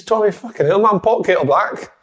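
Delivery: high-pitched mock-indignant comeback; retold retort. Retelling his comeback to Tommy, mock indignant.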